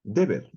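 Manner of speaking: "deber" read with two e sounds, de-BER; teacher voicing a vowel change; Hebrew reading demo. Shown as a demonstration. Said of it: "yo puedo leer".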